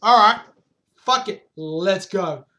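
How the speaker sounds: shouted go-for-it on "All right"; gung-ho exclamation. Retold or imitated. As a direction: fire up the crew like you're done waiting. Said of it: "So they're like".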